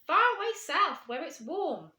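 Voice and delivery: high, loud call from above; calling back. Acted. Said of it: "they called back".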